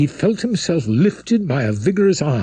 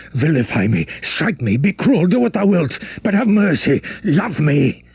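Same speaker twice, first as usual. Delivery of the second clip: desperate begging; 3 semitones higher than usual. Acted.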